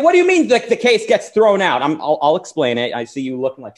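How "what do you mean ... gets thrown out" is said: much higher, louder mock outrage; imitating a shocked viewer, pitched way up; mock outraged yell. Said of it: "And you scream".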